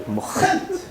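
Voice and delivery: shocked question. Acted. David hears his guest's name, whispered disbelief. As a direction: gasp the name back in disbelief. You joke.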